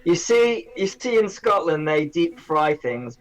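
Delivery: put-on hammy Scottish accent; mock Scottish accent. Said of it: "please excuse awful Scottish accents".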